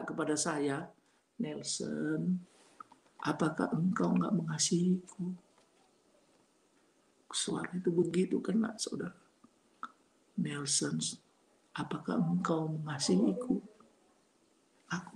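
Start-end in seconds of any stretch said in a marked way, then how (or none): 1.4-5.3 low, gentle pleading; soft pleading voice. Retold or imitated. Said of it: "Itu suara orang yang memelas". 10.4-13.6 low, hushed plea; soft pleading voice. Retold or imitated. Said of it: "Itu suara orang yang memelas".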